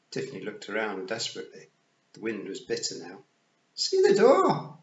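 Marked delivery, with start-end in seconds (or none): 3.8-4.8 very high, slow, loud command. A narrator's reading. Rob ordering Tiffany to find the door, commanding shout. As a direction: bellow it as a drawn-out order. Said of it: "Rob Anybody commanded".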